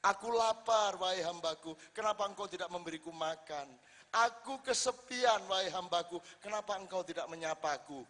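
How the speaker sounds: a lightly voiced God calling his servants; voicing God. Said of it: "Misalnya Allah mengatakan".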